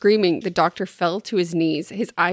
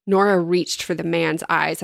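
ordinary talk

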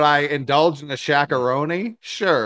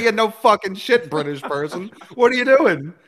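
higher, louder mock outrage; exasperated yell; 7 semitones higher, 5 dB louder than usual. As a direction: yell it at the British person in disbelief. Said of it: "And it's like".

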